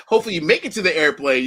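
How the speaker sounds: laughing through a teasing line. Real, not acted. Teasing his co-host about catching the flight, laughing. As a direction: tease him with a laugh in the voice.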